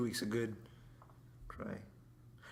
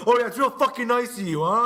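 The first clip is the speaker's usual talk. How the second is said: mock sarcastic; 7 semitones higher, 6 dB louder than usual. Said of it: "He said".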